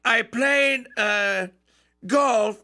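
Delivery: a light Trump impression; imitating Trump. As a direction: Trump greeting the Eagles, lightly voiced. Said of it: "He said".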